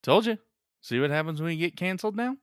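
high, loud told-you-so; gloating. Acted. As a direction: gloat over the vanished guy. Gloating after the vanishing.

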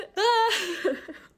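loud, high-pitched wail tipping into laughter; hammed-up crying outburst; mock sob. Driver collapsing in tears at cop, mock sob. End of acted weeping to cop.

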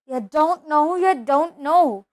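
loud, stunned disbelief; disbelieving. Acted. Hagrid realises Harry knows nothing, disbelieving. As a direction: say it as the truth sinks in.

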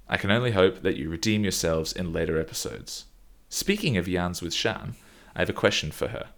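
lightly voiced well-off guy, quick start; mild mock-posh complaint read; hint of a smug well-off man; Jared impression. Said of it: "do my best Jared accent".

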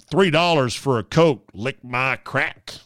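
mock a cheap loudmouth tourist; imitating a rude tourist; crude airport guy. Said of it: "heard someone say".

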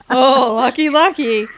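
high, loud singsong retort; mock envy. Replaying what was in her head, mock envy.

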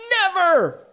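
high, loud cry of refusal; Wendy crying out in defiance; cried out. Acted. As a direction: fling the word out. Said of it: "she cried".

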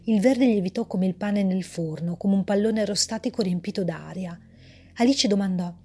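measured, even storyteller reading; story narration. A narrator's reading. Author reading her story aloud, calm narration. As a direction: read the tale calmly to listeners.

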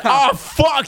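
high-pitched mock dismay; imitated exclamation. Friend echoing the robbed kid's reaction, high mock dismay. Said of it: "He said".

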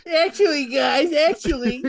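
high, loud know-it-all voice; pedantic nerd. Acted. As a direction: interrupt as a hammed-up nerd, slowing down. Mocking pedantic nerd corrections.

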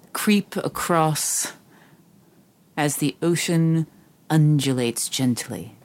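slow, lyrical descriptive narration; poetic word picture. Shown as a demonstration. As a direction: paint the scene like a poem. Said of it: "I'll give you the word picture".

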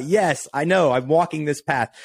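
a mild mock cheer, pitched high; mock excited shout. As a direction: re-enact cheering along at the screen. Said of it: "I'm screaming out".

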